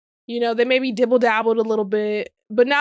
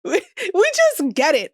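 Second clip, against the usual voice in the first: laughing repeat; 5 semitones higher than usual. Shown as a demonstration.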